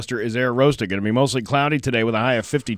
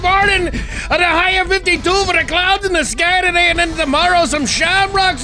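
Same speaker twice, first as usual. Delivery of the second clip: much higher, louder comic forecaster; silly character voice; 12 semitones higher, 5 dB louder than usual. Pretend. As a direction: belt the forecast like a cartoon character.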